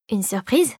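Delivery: a light questioning rise on the word surprise; surprised echo. Acted. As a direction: repeat it back, mildly puzzled. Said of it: "répéta la créature".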